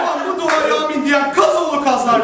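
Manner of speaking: mock prayer.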